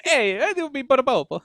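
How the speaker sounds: lightly put-on Italian accent; mock Italian accent. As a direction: play at a hammy Italian. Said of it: "what are you, Italian".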